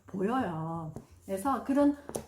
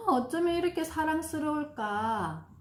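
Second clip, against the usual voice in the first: loving praise; 6 semitones higher than usual. Shown as a demonstration. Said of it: "학습 능력 향상을 돕는 엄마의 말".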